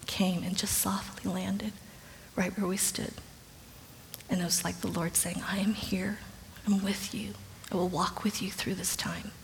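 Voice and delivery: hushed reverence. A narrator's reading. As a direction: breathe it like a holy secret. Sunbeam moment, Lord's reassurance.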